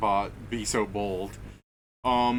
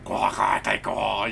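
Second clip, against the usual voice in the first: mock quacking; 3 semitones lower, slower than usual. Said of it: "Abyssal sounds like".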